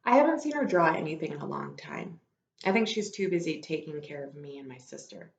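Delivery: steady read-aloud storytelling; story narration. Acted. Teacher reading a novel aloud to her class. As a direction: tell the story to the children.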